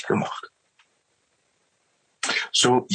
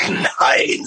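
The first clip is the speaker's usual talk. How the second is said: Eve's shout. Retold or imitated. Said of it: "sagt sie".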